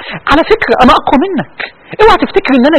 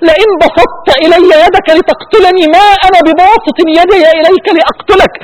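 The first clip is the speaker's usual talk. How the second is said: pleading through tears; 4 semitones higher, slower than usual. Real, not acted. Wishes to tell rioters the verse.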